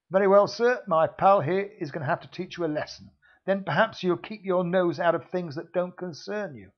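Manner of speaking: loud threatening heavy; menacing thug. Acted. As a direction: deliver the final warning. Villain final threat.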